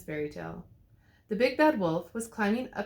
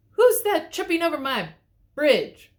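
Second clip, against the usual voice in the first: loud, much higher mock roar; troll roar; 8 semitones higher, 8 dB louder than usual. A narrator's reading. The troll challenging at his bridge, loud mock roar. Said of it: "roared the troll".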